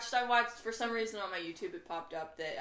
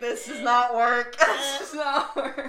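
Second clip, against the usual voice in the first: exasperated; 4 semitones higher, 11 dB louder, much slower than usual. Retold or imitated. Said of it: "and I was like".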